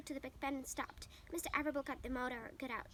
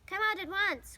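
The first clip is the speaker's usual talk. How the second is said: higher, loud stern shout; crying out; 7 semitones higher, 8 dB louder, slower than usual. A narrator's reading. Father orders Avery out, loud stern shout. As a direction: order him out sharply. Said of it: "cried Mister Arable".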